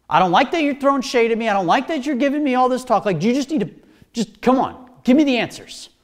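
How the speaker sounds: mildly hammed-up bossy ruler; acted indignant demands. Pilate insisting he holds all the cards, mock indignation. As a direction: push it out, insistent, as a ruler losing patience. Preacher acts Pilate bullying silent Jesus.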